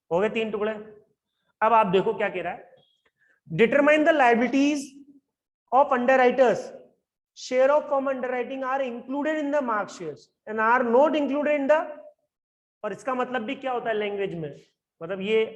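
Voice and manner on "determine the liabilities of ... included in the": slow reading aloud. Shown as a demonstration. Teacher reads question text aloud.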